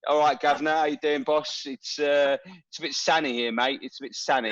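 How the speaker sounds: put-on matey London geezer accent. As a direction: play up a London accent to make a mate feel at home. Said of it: "so Steve feels like he's at home".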